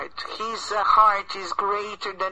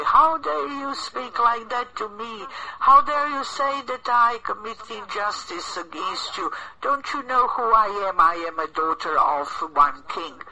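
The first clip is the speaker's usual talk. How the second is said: higher, indignant royal outrage; angry princess; 4 semitones higher than usual. Acted. Princess scolds her servant over the stolen necklace, higher and indignant. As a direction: play the offended princess demanding respect. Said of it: "princess then got even more angry".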